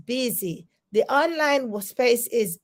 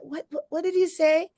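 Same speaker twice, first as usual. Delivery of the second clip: mock puzzled folks, a bit higher; puzzled listeners; 4 semitones higher than usual. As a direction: imitate people who didn't catch it, asking twice. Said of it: "sometimes folks be like".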